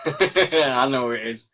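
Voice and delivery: slow, amused, laughing through I know who it is; laughing knowingly. Real, not acted. Teasing a fan in chat, laughing.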